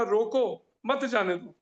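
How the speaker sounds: "रोको" alone, then "मत जाने दो" as one phrase; pause after रोको. Shown as a demonstration. Teacher recalling the first reading for students, pause after "रोको". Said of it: "पहले वाले का अर्थ कॉमा लग जाने से".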